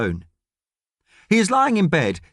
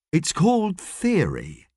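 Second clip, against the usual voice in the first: level; 4 semitones higher, slower than usual. Acted. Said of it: "says Thomas levelly".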